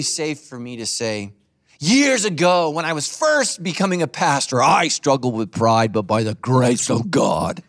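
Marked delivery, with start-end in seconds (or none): 1.8-5.9 put-on old-school preacher. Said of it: "That's how pastors used to preach". 5.9-7.6 preacher cadence. Retold or imitated. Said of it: "how pastors used to preach".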